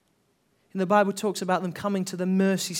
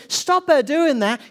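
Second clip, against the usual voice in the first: indignant rebuke; 6 semitones higher, 5 dB louder, slower than usual. Retold or imitated. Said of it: "and they said".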